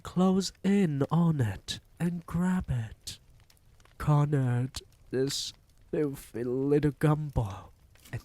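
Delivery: high, loud witch barking orders; commanding witch. A narrator's reading. Grand High Witch ordering witches to corner the boy, high and commanding. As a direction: order the pack to close in.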